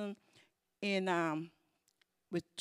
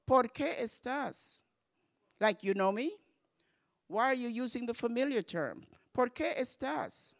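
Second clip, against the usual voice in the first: offended stranger; 4 semitones higher than usual. Pretend. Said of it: "they'll say".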